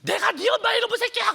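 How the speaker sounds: shrieking high, loud mother's yell; a mother screaming at her son for running off; furious mother yelling. Retold or imitated. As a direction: scream at the boy who came home late. Mother shouting back at son.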